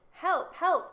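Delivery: high, loud call for help; crying for help. A narrator's reading. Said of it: "cried the court".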